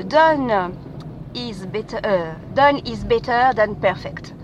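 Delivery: English motto said slowly in a French accent. Shown as a demonstration. Podcaster reciting a podcast's motto, slow French-accented English. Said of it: "excusez mon accent, euh, anglais".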